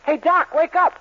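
laughing call to wake him; laughing shout. Acted. Dennis waking the dozing doctor, laughing shout. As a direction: jolt the doctor awake with a laugh. Patient mocking the sleeping doctor.

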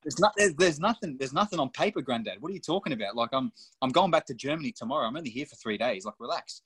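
mock disbelief, come on granddad relax; exasperated retort. Retorting to his granddad on the phone.

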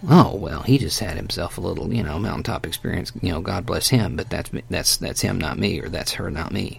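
lightly voiced dismissive skeptic; mock dismissive. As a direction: brush it off, a touch mocking.

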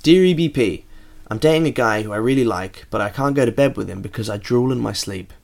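reading the listener's letter aloud. Acted. Host reading out a listener's letter on the show.

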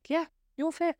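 a lighthearted crush on a film hunk; mock swooning. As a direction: gush over the actor in jest. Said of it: "and I'm like".

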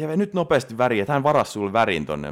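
imitating a helper's loud, high urging; urgent hurrying. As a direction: act out rushing someone along. Helper hurrying her to get color.

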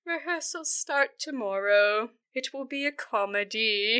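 slow, mock-mournful announcement; so sad. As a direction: drag it out sadly. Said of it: "so sad".

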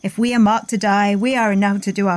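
stage king rallying his men; Shakespeare recital. Acted. Cohost reciting Henry V to the host, in a lightly declaimed stage voice.

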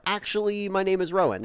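put-on high-pitched toddler introducing himself; Rowan. Dad mimics his son's filler habit, high toddler voice. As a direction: pipe up high, like a small kid. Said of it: "he could say".

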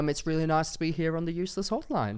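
put-on Aussie accent with a rising lilt; careful impression of an Australian speaker; attempted Australian accent. Shown as a demonstration. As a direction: show off your best Australian accent. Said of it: "That's really good".

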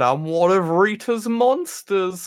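slow, high monster voice; playing the villain, slowly; mock monster voice. Voicing the Mantis character.

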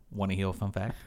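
lightly mimicked cashier, r's and l's softened to w's; imitated cashier. Cashier offering a customer trivia, lightly imitated. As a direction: lightly play an earnest trivia-loving clerk. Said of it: "he looks at me and says".

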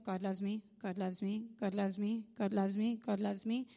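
lightly mocked mindless mantra; repeated mantra. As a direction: repeat it evenly, like a mock automatic chant. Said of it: "walk around going".

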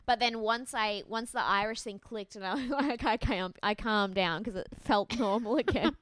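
ordinary talk

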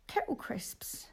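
slow, hushed confession; guilty whisper. Real, not acted. Confessing snacks after gym talk, slow guilty whisper. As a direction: whisper it like a shameful secret.

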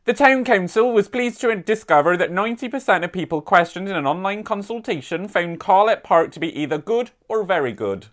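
light mock West Country accent, reading the council news; a gentle West Country burr on a local newsletter; hint of a rural West Country accent. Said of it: "I've been doing my West Country accent all weekend, so we're gonna stick with that".

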